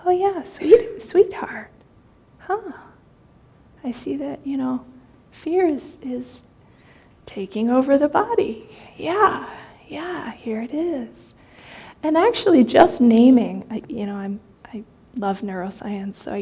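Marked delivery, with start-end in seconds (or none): 0.0-11.3 kind, hushed reassurance; tender sweetheart tone. Shown as a demonstration. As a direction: soothe the fear like a loved one. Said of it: "it's got this energy of".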